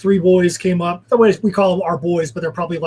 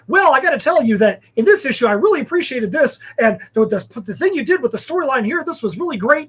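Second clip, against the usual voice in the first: mock scholar; 5 semitones higher than usual. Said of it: "it was like he was a Rhodes Scholar".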